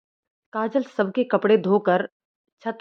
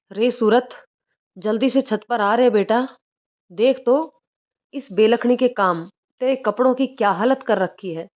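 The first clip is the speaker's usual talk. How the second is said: raised, urgent call to her son upstairs; calling out loud; 2 semitones higher than usual. Acted. Mother-in-law yelling for her son on the roof, moderately loud. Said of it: "वो जोर से चिल्ला उठी".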